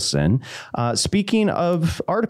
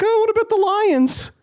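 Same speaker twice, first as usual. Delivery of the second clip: put-on pre-puberty kid voice. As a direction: squeak it like a young boy. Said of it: "pre-puberty".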